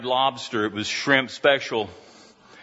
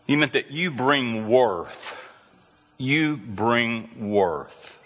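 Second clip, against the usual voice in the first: "You bring worth." slowed right down on the repeat; emphatic repeat; slower than usual. Shown as a demonstration. Pastor drives the point home to congregation, slow. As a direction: land it slowly. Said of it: "repeated slow emphasis".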